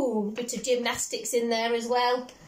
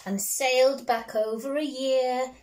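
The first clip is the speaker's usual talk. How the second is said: storybook reading. Acted. Parent reading a picture book to a child, gently lilting. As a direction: read it like a bedtime story.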